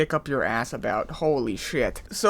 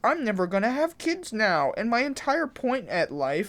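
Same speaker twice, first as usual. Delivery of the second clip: mock lament; 5 semitones higher than usual. Mocking a woman's imagined lament.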